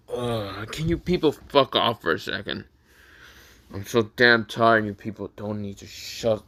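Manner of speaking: irritated outburst with loud bursts; annoyed groan. Retold or imitated. Woken napper to classmates, annoyed groan. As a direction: groan it out, fed up at being woken. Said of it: "woke up with such an annoyed groan".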